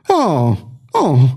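a dazed, breathless oh, oh; stunned exclamation. A narrator's reading. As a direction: gasp it out, thrown off balance. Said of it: "exclamă mesagerul năucit". (exclamație năucită, uluită)

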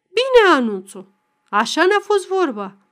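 high, loud burst of reproach; angry outburst. A narrator's reading. Angry father confronting his daughter Anuța, bursting out in loud reproach. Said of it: "apoi izbucni".

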